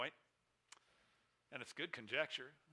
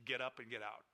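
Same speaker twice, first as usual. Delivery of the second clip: simple command; 2 semitones lower than usual. Acted. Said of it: "Jesus simply saying this".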